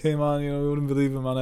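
mildly worked-up "hey man" voice; retold excitement. Retelling his excited report to friend.

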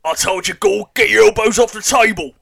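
loud, stern table-manners scolding; crisp disapproving governess. Acted. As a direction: bark it like a strict governess.

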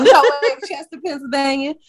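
put-on Chester accent, amused. Co-host asked about Chester talk, laughing mock accent. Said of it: "why I did that accent again".

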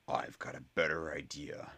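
voiceless menacing hiss; a bully's hissed whisper; hissed threat. Acted. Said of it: "hissed the largest Slytherin".

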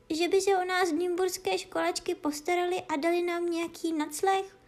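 high, pleading little cat voice; plaintive cat. Acted. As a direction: whine it like a worried kitten. Cat lamenting in story.

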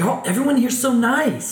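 high, slow gushing newcomer voice; high, slow, gushing tourist voice; mock newcomer. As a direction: gush it like a wide-eyed Californian. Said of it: "They're like".

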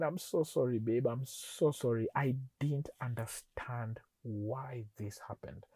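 retold apology sinking to near-whisper; embarrassed apology. Husband apologising to wife once she explained, embarrassed. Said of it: "I was embarrassed".

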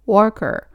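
"worker" with an er vowel, unlike "walker"; English pronunciation. Shown as a demonstration. Teacher contrasting it with walker, English pronunciation. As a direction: say "worker" as "wur-ker", in English. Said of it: "働く人を、ワーカーのことは".

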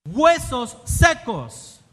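loud, drawn-out call; exclamatory. Shown as a demonstration. Preacher repeating the exclaimed call to dry bones, exclamatory. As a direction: proclaim both words slowly and forcefully. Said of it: "cuando tiene signos de exclamación, ¿cómo se debe decir?".

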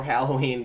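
"Halloween" as HAL-oh-ween; preferred pronunciation. Shown as a demonstration. Asking listeners to vote, "Halloween" with cat A. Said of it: "that's the correct one".

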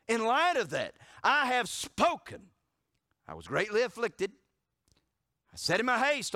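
loud, high, stretched preacher's cadence; fiery preaching. Acted. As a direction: preach the verse with full force. Preaching Psalm with force.

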